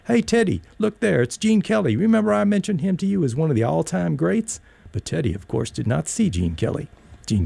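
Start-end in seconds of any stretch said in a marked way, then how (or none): 0.1-4.6 put-on much higher, eager call to the boy; thrilled grandpa calling his grandson over; calling out excitedly. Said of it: "I called out to Teddy".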